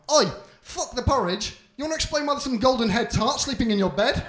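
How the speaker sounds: shouting mother bear, outraged; angry Mama Bear. Acted. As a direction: tear into him for the girl in his bed. Mama Bear scolding in story.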